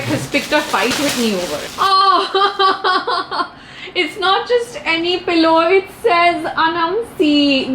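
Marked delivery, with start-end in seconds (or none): 1.8-7.7 giggling through the words; laughing. Real, not acted. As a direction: laugh while reading it out. Laughs at the pillow.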